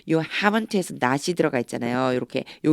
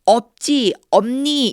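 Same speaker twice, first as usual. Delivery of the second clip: mock negative question; 8 semitones higher, 5 dB louder, much slower than usual. Shown as a demonstration. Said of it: "이렇게 물어보기보다는요".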